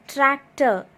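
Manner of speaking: TRAC, TOR as two distinct beats; syllable by syllable. Shown as a demonstration. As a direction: sound out tractor in two parts. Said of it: "while pronouncing the words".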